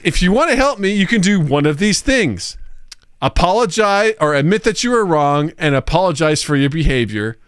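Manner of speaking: high-pitched, then settling, bossy chatbot; mock demanding. Chatbot orders the user to apologize, mock bossy. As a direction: lightly voice a bot laying down terms.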